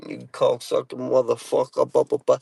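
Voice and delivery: imitating his own Boston tirade, mildly heated; mock Boston cursing rant; heated Boston accent. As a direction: reel off Boston insults, trailing into blahs. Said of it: "if you get somebody heated".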